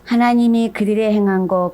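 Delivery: ordinary talk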